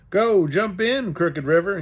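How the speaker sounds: slow, loud, each word weighted; slow deadly emphasis. A narrator's reading. Boy scolding the banister post, slow deadly emphasis. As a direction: spell it out to the banister like a threat. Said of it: "with a slow, deadly emphasis".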